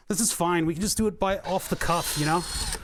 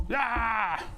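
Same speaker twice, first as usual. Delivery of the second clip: strained grunt; 6 semitones higher than usual. Real, not acted. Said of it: "Sounding like, uh, Badlands Chugs".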